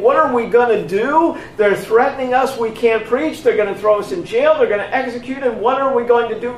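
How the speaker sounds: hammed-up worried chatter; mock worrying. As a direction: play the apostles as anxious and flustered.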